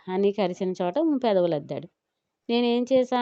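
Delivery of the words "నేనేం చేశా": higher, pouting complaint; a hint of a sulking wife; sulky. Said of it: "అలకగా అంది". (అలకగా, బుంగమూతితో)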